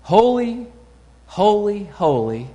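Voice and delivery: first two holy rising high and ringing out, third dropping back; seraphim's cry. Acted. Preacher voicing the seraphim crying to God, ringing proclamation. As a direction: cry it like the angels before the throne. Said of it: "what they cry".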